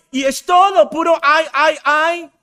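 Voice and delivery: loud, high hammed-up "ay, ay, ay"; exaggerated whining sighs; mock moaning. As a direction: groan theatrically like a chronic complainer. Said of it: "quejándose".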